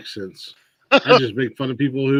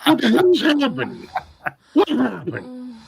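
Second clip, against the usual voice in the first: bewildered; 9 semitones higher than usual. Real, not acted. Confused by the chat.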